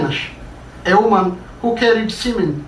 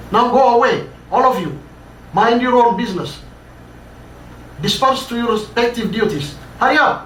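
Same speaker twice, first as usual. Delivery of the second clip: higher, raised commanding voice; ordering them away; 5 semitones higher, much faster than usual. Acted. Boss sending the workers back to duty, raised commands. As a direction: shoo the crowd off like a boss.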